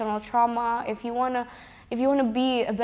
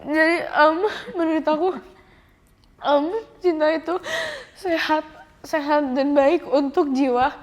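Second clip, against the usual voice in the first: crying; 4 semitones higher, 3 dB louder than usual. Real, not acted. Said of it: "mohon maaf aku nangis".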